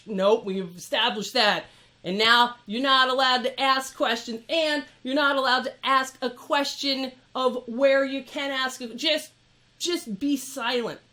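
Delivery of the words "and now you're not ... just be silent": mock stern staff voice, louder on the ma'ams; dismissive ma'am. Imitating Apple staff silencing a customer, stern and louder. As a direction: shut her down like a librarian. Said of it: "getting ma'ammed".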